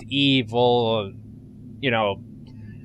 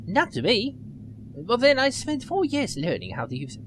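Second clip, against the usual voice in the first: put-on higher, quick nerdy young woman; nerdy girl voice; 7 semitones higher than usual. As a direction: play her as an eager nerd. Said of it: "I gave her a little nerdy voice".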